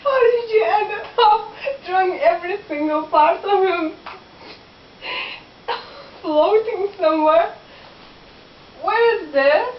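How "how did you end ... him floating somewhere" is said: words broken by laughter; laughing at friend's drawing; laughing through question. Real, not acted. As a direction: ask while cracking up.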